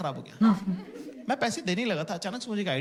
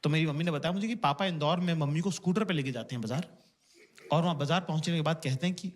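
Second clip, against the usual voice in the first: usual speaking voice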